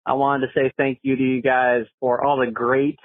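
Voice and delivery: phone message playback; recorded caller on the line; voicemail. Real, not acted. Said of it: "let's see what Matt has to say".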